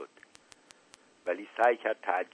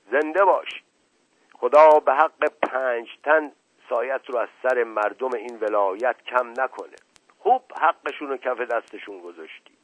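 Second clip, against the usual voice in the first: excited praise; 6 semitones higher, 8 dB louder than usual. Acted. Servant cheering the uncle excitedly.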